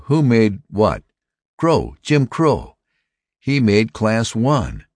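high-pitched, breaking big news; astonished excitement. A narrator's reading. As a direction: exclaim it high, word by word. Astonishing news is broken to him.

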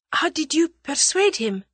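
put-on high-pitched girl character; girl's voice. A narrator's reading. The girl asks Julius about the Russian, girlish. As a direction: ask in a light, high girlish voice.

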